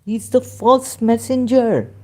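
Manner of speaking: heated outburst. Real, not acted. Denouncing the prophet to his viewers, a loud angry outburst. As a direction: let it burst out as an accusing tirade. Heated denunciation of rival faith.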